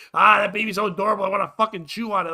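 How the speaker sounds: fast, loud mock gushing; mock baby-crazy woman; gushing baby admirer. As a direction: gush over a cute baby, exaggerated. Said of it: "those women who, when they see a baby".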